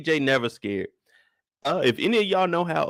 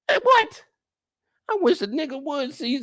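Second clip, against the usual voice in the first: outraged exclamation; 12 semitones higher than usual. Real, not acted. Rant peak.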